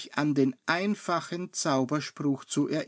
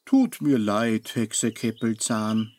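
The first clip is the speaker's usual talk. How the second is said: friendly apology; 3 semitones lower, 3 dB louder than usual. Acted. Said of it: "entschuldigt sich Salbenbrau noch freundlich".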